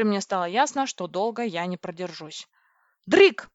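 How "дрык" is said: high, loud call for help; shouted, rising call. A narrator's reading. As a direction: cry out the name urgently. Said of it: "позвала я".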